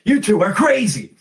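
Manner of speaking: muffled shout from underwater; hand over mouth. Acted. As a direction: yell as if through water. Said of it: "a muffled voice come out of the water".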